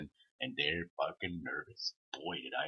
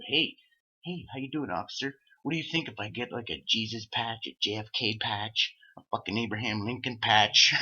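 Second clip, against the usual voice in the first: mocking taunt; 2 semitones higher, 4 dB louder than usual. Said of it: "being an asshole".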